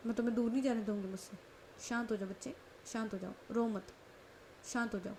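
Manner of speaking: calm her down tenderly; soothing. Acted. Manvi soothing crying Kanak.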